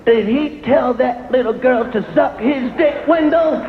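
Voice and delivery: lightly voiced indignant TV viewer; a hint of a scandalised housewife; shocked Middle American viewer. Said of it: "see Middle America watching".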